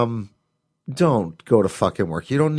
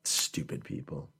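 whispering; 7 semitones lower, 15 dB quieter than usual. Real, not acted. Muttered aside about idiots.

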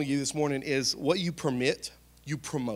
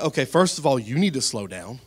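mock stern; 7 dB louder than usual. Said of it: "I was like".

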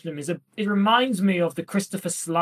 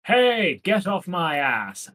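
a light mock Scottish accent, slowing down on the last words; barely-there Scottish accent; slower than usual. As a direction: toss it off in a half-hearted Scottish accent. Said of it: "I say in a Scottish accent".

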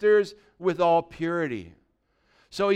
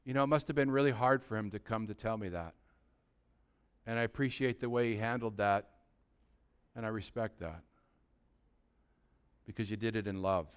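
low, soft thinking aloud; quiet, touched musing, trailing softer; mother's private reflection; 7 semitones lower, 10 dB quieter, faster than usual. Acted. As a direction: murmur it to yourself appreciatively. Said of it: "that mother will say to herself".

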